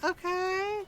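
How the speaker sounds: amused acceptance. Retold or imitated. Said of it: "Ron's like".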